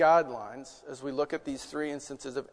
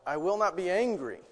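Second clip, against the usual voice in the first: firm vow; 3 semitones higher, 6 dB louder than usual. Pretend.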